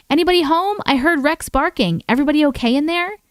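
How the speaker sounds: high, quick calling through a door; a visitor calling out at the door; calling pastor. Retold or imitated. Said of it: "another voice calls out".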